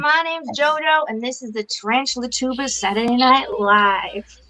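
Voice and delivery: lightly put-on H-Town accent; a touch of Texan twang; Darcy. Host introducing the show, imitating an H-Town accent. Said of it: "I went for the Darcy, 'cause it's, like, H-Town".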